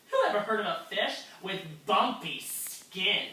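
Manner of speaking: mocking laugh. Fish mocks guppy.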